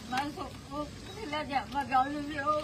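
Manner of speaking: real tearful distress; distraught, tearful telling; crying. Real, not acted. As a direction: speak through tears, upset. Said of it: "રડશો નહીં, પહેલા રડશો નહીં".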